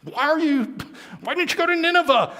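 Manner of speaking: high, loud, fast exasperation; exasperated captain. Acted. Captain exasperated at Jonah for not going to Nineveh, high and loud. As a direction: throw up your hands at him. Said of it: "captain was really exasperated".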